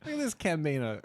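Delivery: lightly put-on Italian accent; a hint of Italian accent on it. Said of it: "Is that my Italian accent?".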